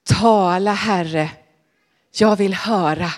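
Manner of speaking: put-on the boy's answer, 「Tala, Herre」 said low and humbly; Samuel answering. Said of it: "så sa han".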